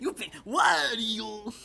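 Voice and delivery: slow, drawn-out catchphrase; catchphrase quote. Acted. Fan who loves that phrase so much, drawn-out catchphrase. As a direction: relish the phrase, stretching it right out.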